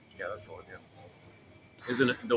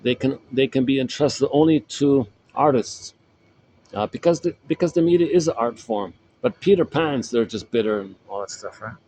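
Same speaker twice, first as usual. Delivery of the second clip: quote read out; 2 semitones higher, 9 dB louder than usual. Retold or imitated. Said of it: "the famous Marshall McLuhan guy".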